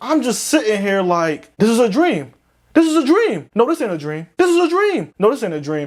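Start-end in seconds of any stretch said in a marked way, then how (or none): 1.6-5.9 high, frantic, panicked babble, rattled off. Retelling sitting in a hot car: retelling own panic. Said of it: "I'm over here panicking".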